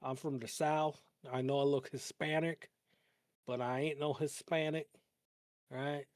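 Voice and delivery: lightly put-on Southern accent. Streamer pretending to be a local in Wisconsin, mock Southern accent. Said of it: "pick up a Southern accent".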